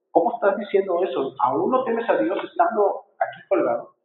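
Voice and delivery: rebuking thief. Retold or imitated. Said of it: "el otro le dice".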